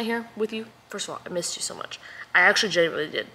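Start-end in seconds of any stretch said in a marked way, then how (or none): 2.3-3.3 sincere words that come out sounding sarcastic; mean it, yet let it sound ironic. Real, not acted. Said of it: "That sounded so sarcastic".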